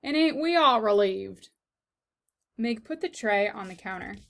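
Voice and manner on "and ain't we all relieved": sarcastic. Acted. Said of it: "said Cook".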